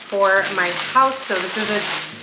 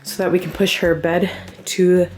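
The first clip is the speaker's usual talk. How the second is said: breathless from the stairs; out of breath; 4 dB louder than usual. Real, not acted. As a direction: talk out of breath, a bit winded. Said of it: "I'm out of breath from running up and down the stairs".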